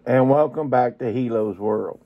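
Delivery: muffled voice from inside a box; box over head. Real, not acted. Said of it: "I can't keep my head inside a box".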